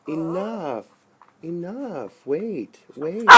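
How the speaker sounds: high, sharp scolding call; sharp command. Real, not acted. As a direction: snap at the dog to stop. Scolding dog near stunned bird.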